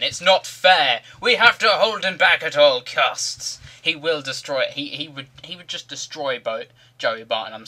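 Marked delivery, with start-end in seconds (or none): 0.0-3.6 slow, loud, high plea; mock urgent cry. Teammates holding the big defender back, loud mock urgency. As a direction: cry out in hammed-up alarm.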